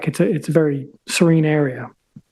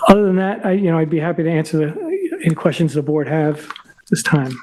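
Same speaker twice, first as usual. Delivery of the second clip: strained, tired voice going; losing voice. Real, not acted. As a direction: voice giving out, a bit hoarse. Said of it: "Sorry, I'm losing my voice".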